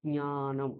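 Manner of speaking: জ্ঞানম as gnya-nam; careful nasal first syllable in জ্ঞানম; nasal ny pronunciation. Shown as a demonstration. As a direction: bring the palatal nasal into জ্ঞানম. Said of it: "ঞকারটা ওখানে আনতে হবে".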